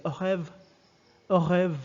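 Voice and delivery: "au rev" stopping before the "oir"; casual French "au rev", guttural R, ending dropped; clipped native form. Shown as a demonstration. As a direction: say only the first part of "au revoir". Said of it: "just pronounce the first part".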